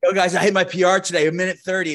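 lightly hammed gym-bro brag; put-on bro accent. Boasting to locker-room guys about his record, bro accent. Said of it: "what is that accent".

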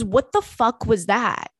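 put-on slow, slurred drunk voice. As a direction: slur it like a drunk. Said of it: "she's drunk".

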